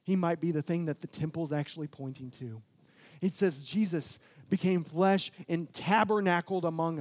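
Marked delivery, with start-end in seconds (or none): 0.0-2.6 urgent wake-up call. Retold or imitated. John calling his readers to wake up, loud and urgent. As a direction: shake the listeners awake. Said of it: "He was trying to invoke".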